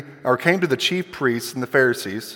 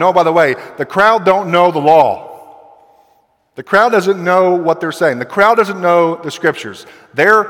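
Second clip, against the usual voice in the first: higher-pitched acted disdain; scornful; 4 semitones higher, 5 dB louder than usual. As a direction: imitate a superior dismissing the ignorant crowd. Acts Pharisees scorning the crowd.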